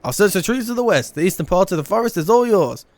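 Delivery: lightly theatrical game-character voice; Erenville character read. Acted. Collector accepting help finding marmots, lightly formal read. Reads Erenville's dialogue aloud.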